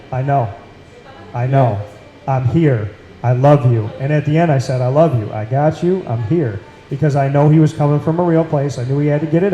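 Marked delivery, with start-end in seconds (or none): 0.1-3.9 recreating a calm, steady reply; calm reassurance. Retold or imitated. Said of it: "I calmly looked at him and I said". 4.8-6.6 retold calm, steady comfort; calm reassurance. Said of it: "I calmly looked at him and I said".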